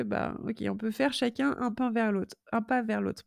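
voix de canard, nez bouché. Real, not acted. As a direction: parler avec le nez bouché. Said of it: "vous entendez, j'ai le nez bouché". (voix nasillarde de rhume)

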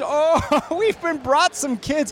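sudden high gasp of delight; mock surprise. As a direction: act startled, pitch jumps up. Host surprised by arriving kids.

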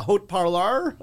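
put-on French in a thick English-speaker accent; heavy Anglo accent. Comic recalling his French commercial line, heavy Anglo accent. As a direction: say the French with hard Anglo sounds. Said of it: "that's a heavy Anglo accent".

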